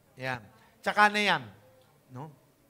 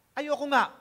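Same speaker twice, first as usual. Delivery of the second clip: put-on child refusing; 5 semitones higher than usual.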